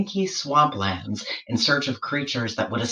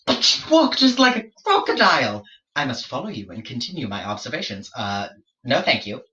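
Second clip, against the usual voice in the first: pestering George. Acted. George following the waddling platypus, fussy explorer voice. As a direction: chase after it, pleading and fussy.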